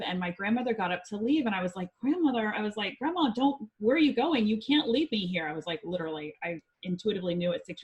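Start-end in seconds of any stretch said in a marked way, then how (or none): 2.0-2.5 higher-pitched imitated child calling out; retold pleading. Retold child calling departing grandmother. 3.0-5.5 higher-pitched imitated child's protest; mildly dramatized plea; retold pleading. Retold child begging grandmother to stay.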